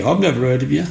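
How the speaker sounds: mildly sarcastic brush-off; a touch of dry sarcasm, dismissing him. Retold or imitated. Shopkeeper doubting the unknown carver, light sarcasm. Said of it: "he went sarcastically".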